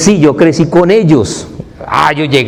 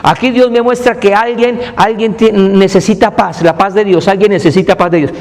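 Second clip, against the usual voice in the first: higher, lightly preachy announcing; mimicking the preacher; 5 semitones higher than usual. Mocking a big-church preacher, higher preachy voice. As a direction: mimic a showy preacher's proclamation. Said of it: "dice el predicador".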